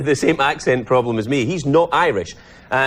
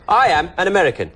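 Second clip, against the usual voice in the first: Michael Caine's American; 3 semitones higher than usual. Retold or imitated. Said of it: "he talked like that".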